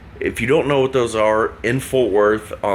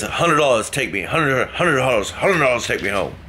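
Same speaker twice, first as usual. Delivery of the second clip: put-on drunk Irish mumble; 4 semitones higher than usual. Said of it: "kind of an Irish accent, but mumbling".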